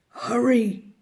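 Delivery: a mysterious voice calling them on. Acted. A hidden voice urging the children to hurry. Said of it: "called the voice again".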